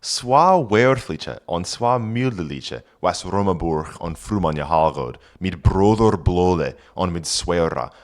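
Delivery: put-on reading Old English aloud. Shown as a demonstration. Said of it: "and then the author says".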